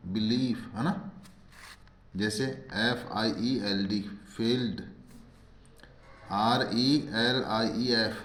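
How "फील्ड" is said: "फील्ड" with a long ई; teacher pronouncing "फील्ड" with long ee; long ee demonstration. Shown as a demonstration. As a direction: model "फील्ड", holding the ee vowel. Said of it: "बड़ी ई की मात्रा".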